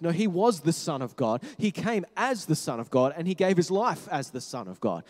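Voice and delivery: ordinary talk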